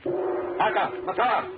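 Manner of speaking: summoning a servant sharply; calling out. Acted. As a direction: call the name out across the hall.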